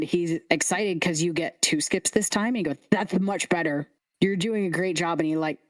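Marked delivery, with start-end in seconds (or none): 2.9-5.2 lightly voiced encouraging lisp; lisping scarecrow kid. Excited kid praises Lulu's two skips, lisping. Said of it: "The lisp".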